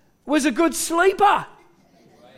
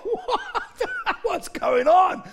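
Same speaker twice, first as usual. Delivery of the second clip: comic, high squeaky panic; mock terror breaking into laughter; terrified disciples; 8 semitones higher, 3 dB quieter, much slower than usual. Disciples baffled by the calmed storm, comically terrified. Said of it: "the disciples were terrified".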